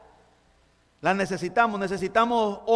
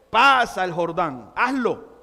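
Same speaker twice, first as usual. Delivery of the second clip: louder, decisive order; firm command; 4 dB louder than usual. Pretend. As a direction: say it as an order, not a suggestion. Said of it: "es una orden".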